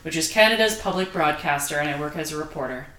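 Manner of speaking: news reporter delivery; a touch of broadcast professional voice. Shown as a demonstration. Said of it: "that reporter voice came out".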